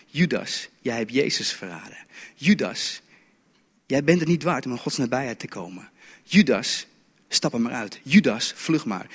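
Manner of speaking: low, softened accusing voice; an inner accuser, low and measured; quiet accusation. Acted. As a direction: accuse quietly, sinking after each name. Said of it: "leiden door de aanklacht".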